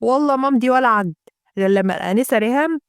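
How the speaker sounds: stubborn Gulf Arabic accent, lightly put on. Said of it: "الناس الخلايجه".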